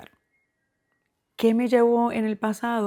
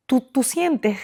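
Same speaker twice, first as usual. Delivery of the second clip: whisper; 4 semitones higher, 3 dB louder, much slower than usual. Real, not acted. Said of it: "cómo puedo explicarlo".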